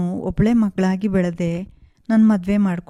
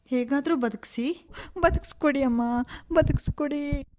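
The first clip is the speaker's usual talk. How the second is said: desperate begging; 4 semitones higher than usual. Acted. Begging to save mother-in-law.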